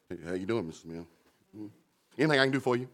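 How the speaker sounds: low, hushed and wary fake friendliness; nervous mock greeting. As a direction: pretend to greet him carefully. Greeting the feared man nervously.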